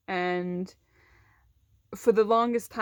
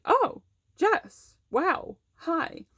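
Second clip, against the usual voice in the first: high-pitched startled greeting, retold; shocked disbelief; 8 semitones higher, much slower than usual. Secretary stunned to see a former student, shocked disbelief. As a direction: imitate a secretary's stunned hello. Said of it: "in shock, like, disbelief".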